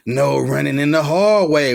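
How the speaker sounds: a hint of the killer hiding in the hall monitor; Freddy's voice. Hall monitor turning into Freddy, lightly voiced menace. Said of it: "with Freddy voice".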